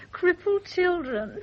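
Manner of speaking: giggles through the words, then a burst of laughter; a girlish giggle breaking into a laugh; giggling. Acted. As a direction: giggle it out, amused at the trick. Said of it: "that's nothing to giggle about".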